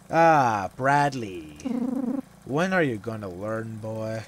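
loud, menacing father calling his son; a drunk dad scolding the boy; stern father. Acted. Voices the abusive father.

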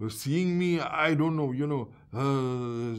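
amused, laughing recollection. Real, not acted. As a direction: laugh through the words as the memory hits. Laughing while recalling the boys' reaction.

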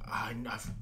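halting whisper, unsure; nervous whisper. Retold or imitated. Raditz confessing nerves to Goku, whispered. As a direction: breathe it out, nervous.

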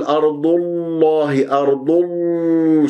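أرض الله with lips kept rounded into the l; wrong rounded lam. Shown as a demonstration. Teacher shows mistake of rounded lips on الله, drawn-out chant. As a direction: let the u of أرض colour the l of الله. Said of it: "لا تقول".

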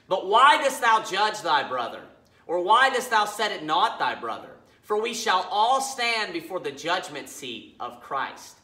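emphatic, measured Bible reading; scripture reading. Acted. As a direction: read the verse out with firm weight. Reads scripture aloud.

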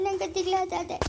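a little crying, said softly; new mother fretting over a baby girl, tearful. Acted. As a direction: let the worry spill into tears. Worried new mother breaks down.

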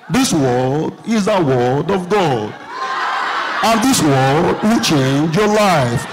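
very low, slow, solemn pastor; pastor impression voice. Pastor opening at the altar, slow deep preaching. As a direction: intone it deep and drawn out, like scripture. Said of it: "wey the pastor dey sound like this".

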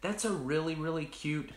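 high, sweet mock-cute friend voice; imitating a friend. Friend admiring the mug, retold in a high cooing voice. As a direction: coo it like a gushing friend. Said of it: "and she said".

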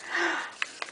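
quiet, breathy gasp of awe; soft gasp. Real, not acted. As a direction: gasp softly, overwhelmed. Overwhelmed by pretty gift.

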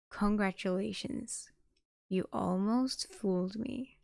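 slow, contained fury; measured, menacing congratulations, understated; terrible, furious voice. A narrator's reading. Sunny confronting Nefis after the fight, understated fury. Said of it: "in a terrible, furious voice".

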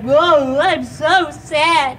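slow, hammed-up sadness with drawn-out words; acted sad. Shown as a demonstration. Teaching a dog to act sad, mock sorrow. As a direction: act out sorrow with long moaning oohs. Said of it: "teach you how to act sad too".

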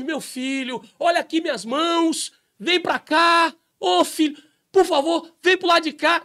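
high, gentle pleading voice; Jesus pleading. Acted. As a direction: beg your son to come home. Jesus begging him to come.

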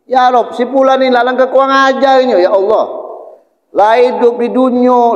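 lightly acted outcry, stretching each complaint; mildly shrieked complaint. Angels complaining to Allah about a sinner, mock outcry. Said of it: "malaikat tu nyerit".

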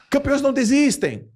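loud, high motivational shout; rousing slogan cry. Acted. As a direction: belt it out like a mock pep talk. Mocks motivational slogan, then rebuts it.

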